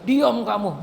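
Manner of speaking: retold angry yell. Possessed mother suddenly shouting at the healer, retold angry yell. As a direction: imitate a sudden snap to silence someone. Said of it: "tiba-tiba ibu tuh teriak".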